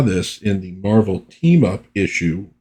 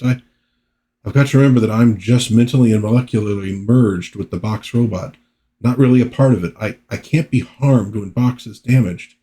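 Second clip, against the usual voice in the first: lightly voiced rattled novice hero; Roger Box; 2 semitones higher than usual. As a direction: reassure yourself, then lose confidence. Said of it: "he's not necessarily handling it all that well".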